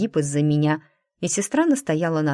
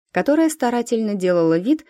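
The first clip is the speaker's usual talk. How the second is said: ordinary delivery, nothing marked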